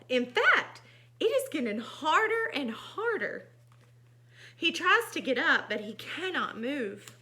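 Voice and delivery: animated storybook reading; expressive storytime voice; story narration. A narrator's reading. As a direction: read to children with mounting concern in the pig's lines. Reads picture book aloud.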